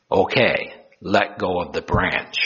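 a hint of God, calm and low; lightly voiced Lord. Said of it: "I am the Lord".

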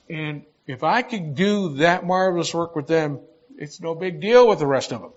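loud, mocking boast; sarcastic. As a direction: lay the sarcasm on thick. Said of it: "I'm being a little sarcastic to make the point".

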